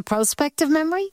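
"prospective" said PRO-spective with a long O; long-O pronunciation. Shown as a demonstration. Host querying the guest's correction, "prospective" as PRO-spective. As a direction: say "prospective" starting like "pro", as a question. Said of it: "tell me why the pronunciation".

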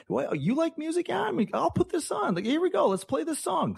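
high, put-on eager voice; eager date voice. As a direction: playfully act out the date. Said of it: "You gotta".

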